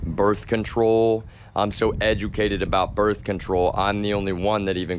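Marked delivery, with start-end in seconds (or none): 0.0-1.2 tactful delivery. Real, not acted. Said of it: "how do I put this in a way that is tactful".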